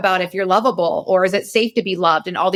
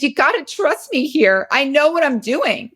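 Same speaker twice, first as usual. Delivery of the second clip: higher-pitched, emphatic self-assurance; confident reassurance; 5 semitones higher than usual. Retold or imitated. Adult self to upset inner child, confident and insistent. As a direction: insist on being trusted, pitch lifted. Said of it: "confident forty-seven-year-old Kate says to her".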